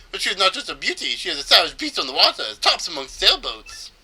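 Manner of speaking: put-on high, theatrical Spanish-accented boast. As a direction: show off grandly in a loose Spanish accent. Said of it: "I think it's supposed to be Spanish".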